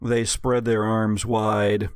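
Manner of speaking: rising dramatic narration; game master narration. A narrator's reading. Game master describing Lori's spell for players, dramatic. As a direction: paint the spell's effect for the table.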